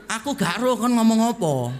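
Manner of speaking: loud, blunt Surabaya Javanese comeback; Surabaya Javanese retort. Retold or imitated. Preacher baffling the attendant, loud Surabaya Javanese retort. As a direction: repeat it forcefully in Surabaya dialect. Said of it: "Saya jawab pakai bahasa Surabaya".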